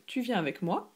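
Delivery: tu viens avec moi with a rise on moi; rising question. Shown as a demonstration. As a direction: end on a lift at moi.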